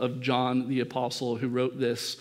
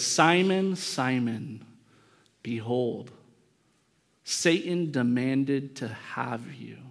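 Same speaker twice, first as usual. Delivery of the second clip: solemn warning; slower than usual. Retold or imitated. Jesus earnestly addressing Peter by name, solemn warning. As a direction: call the name, then slowly deliver grave news. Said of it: "when he really wanted to talk to him".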